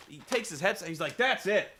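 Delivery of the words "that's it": fed up. Retold or imitated. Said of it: "has had enough".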